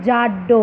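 জাড্ড said slowly and clearly, falling; জাড্ড enunciated like a teacher; sound demo. Shown as a demonstration. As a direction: spell out জাড্ড with a doubled ড sound. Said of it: "কি শব্দ পেলাম".

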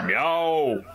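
drawn-out cat's meow. Acted. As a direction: meow like a big cat. Game master voices the cat's meow.

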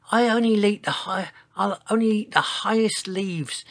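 high, small voice, no true whisper; tiny whispered voice. A narrator's reading. Giant reassures the others about food, tiny-voiced. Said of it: "he whispered".

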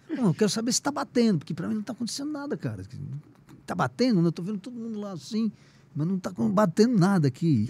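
eager questioning. Retold or imitated. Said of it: "eu começava a falar pra ele assim".

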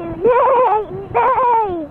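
slow neighing horse. Retold or imitated. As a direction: neigh it out slowly. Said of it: "What do they do?".

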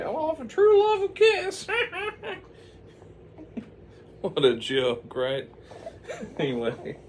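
very high laughing falsetto; high witch voice breaking into laughs; mocking laughter. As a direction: cackle at the idea of true love. Witch mocks true love, laughing.

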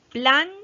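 "Planta" split in two, PLAN high and loud, then ta; "Planta" as two separate beats; syllable-by-syllable. Shown as a demonstration. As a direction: pause between the syllables of "Planta". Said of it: "vamos a separar en sílabas".

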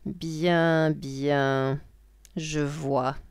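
lightly voiced witch, drawn-out words; a touch of witch. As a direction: muse as a scheming witch, lightly played. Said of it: "dit la sorcière".

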